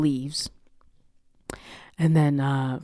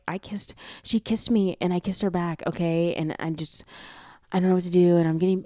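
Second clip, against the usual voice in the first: mildly acted panic, raised pitch; freaking out; 4 semitones higher, 3 dB louder than usual. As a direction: imitate a friend confessing in a fluster. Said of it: "freaking out on the side of the street".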